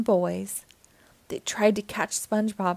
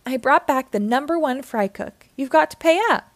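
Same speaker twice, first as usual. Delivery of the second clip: gleeful demand; 4 semitones higher, 5 dB louder than usual. Acted. Squidward gleefully demands payment.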